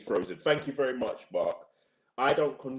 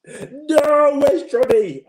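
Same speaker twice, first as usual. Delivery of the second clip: louder, higher call for a missing co-host; 13 semitones higher, 9 dB louder, much slower than usual. Real, not acted. Host calls out for Johnny after his link drops, loud. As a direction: shout out as if looking round for him.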